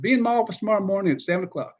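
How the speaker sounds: a lightly voiced curt coach command; Spurrier impression. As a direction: coach summoning him, fast and curt. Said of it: "He said".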